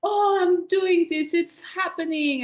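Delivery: high, loud burst of excitement; acted excitement. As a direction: play up the thrill, pitched high. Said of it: "like, the excitement of".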